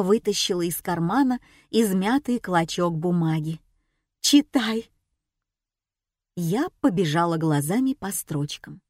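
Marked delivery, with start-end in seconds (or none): 4.2-4.9 Fatima's curt order, a touch higher; a hint of a bossy older woman; commanding. A narrator's reading. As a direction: thrust the note at her, snapping it. Fatima thrusts note at narrator.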